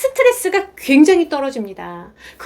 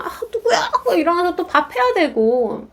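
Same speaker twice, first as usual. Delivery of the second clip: laughing through the words, higher; 3 semitones higher than usual. Real, not acted. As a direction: chuckle as you speak, voice lifted. Laughing while describing chore.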